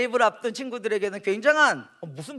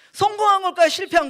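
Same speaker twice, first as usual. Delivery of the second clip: 성공한 jumps much higher, louder; pitched-up repeat; 9 semitones higher, 3 dB louder than usual. Shown as a demonstration. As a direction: lift "성공한" high to tease the audience. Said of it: "애매하지 않아요?". (훨씬 높게 되묻기)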